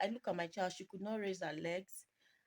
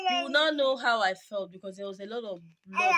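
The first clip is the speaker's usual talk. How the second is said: real tearful distress; 9 dB louder than usual. Real, not acted. Recalling daughter's bleeding leg.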